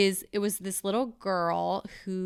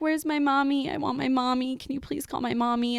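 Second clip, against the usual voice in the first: put-on little girl voice; 5 semitones higher than usual. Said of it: "she said".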